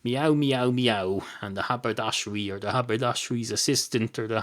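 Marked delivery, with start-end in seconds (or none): 0.0-1.2 a string of imitated cat meows; mock meowing. Cat answering the shop assistant, mock meowing. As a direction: meow over and over like a cat. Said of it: "And the cat goes".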